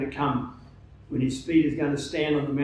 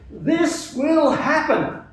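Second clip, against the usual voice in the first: slow, much higher Canadian accent imitation; imitating a Canadian accent; 10 semitones higher, 4 dB louder, much slower than usual. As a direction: mimic the Canadian visitor's accent, slowly and high. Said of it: "in his, his, uh, Canadian accent".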